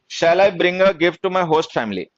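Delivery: very slow, word by word dictation. Shown as a demonstration. Teacher dictating slowly to students, word by word. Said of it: "dictation of sentence".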